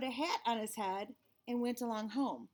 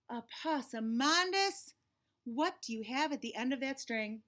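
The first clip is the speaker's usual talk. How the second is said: weary mama. Acted. Mama spotting the bread on a string, weary dread. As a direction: stretch his name in dread.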